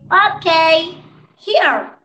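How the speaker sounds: "Ok" and "here" set apart by a long pause; model pronunciation. Shown as a demonstration. Teacher reading the fifth line for students, model pronunciation. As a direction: say "Ok", pause, then a separate "here" for learners. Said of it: "la pronunciación que yo haga".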